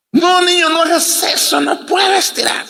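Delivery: hammed-up hysterical falsetto; hysterical woman. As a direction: imitate a panicking lady crying out. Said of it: "otra señora histérica".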